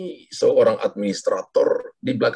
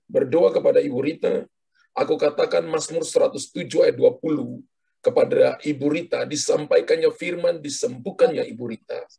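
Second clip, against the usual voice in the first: healing prayer; 2 semitones higher than usual. Acted.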